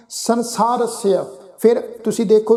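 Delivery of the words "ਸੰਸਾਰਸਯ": ਸੰਸਾਰਸਯ said slowly as san-saar-si-ya, with a falling end; slow pronunciation demo. Shown as a demonstration. Teacher isolating ਸੰਸਾਰਸਯ for students, slowly. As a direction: sound out ਸੰਸਾਰਸਯ slowly, syllable by syllable. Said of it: "ਨਾਸਕੀ ਉਚਾਰਨ ਆ ਜੀ".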